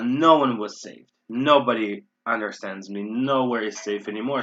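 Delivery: emphatic negative openers "No one", "Nobody", "Nowhere"; stress on the negatives. Shown as a demonstration. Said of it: "we're being very negative here".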